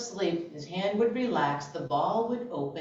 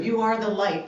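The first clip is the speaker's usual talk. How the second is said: mock affirmation; 3 semitones higher, 5 dB louder than usual. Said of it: "trying to be like".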